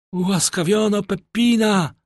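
high-pitched outraged yell. A narrator's reading. Condemned man learning his companion is spared, yelling. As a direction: yell it in shocked protest. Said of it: "wrzasnął Andrea".

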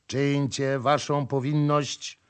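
nasal call. Acted. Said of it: "zawołał przez nos jegomość".

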